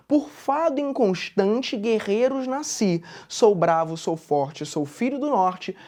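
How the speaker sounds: measured, slow verse reading; poetry read in even cadence; poem recitation. Acted. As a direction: recite with a steady beat, pausing at each line.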